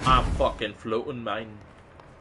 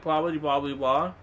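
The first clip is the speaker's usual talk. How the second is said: mock gibberish; 5 semitones higher than usual. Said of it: "be saying gibberish".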